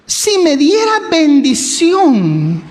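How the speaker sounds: slow, tender plea "si me diera bendición"; pleading prayer. Retold or imitated. Jabes asks God for blessing, slow humble plea. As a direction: ask humbly, drawn out. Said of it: "a lo mejor llorando".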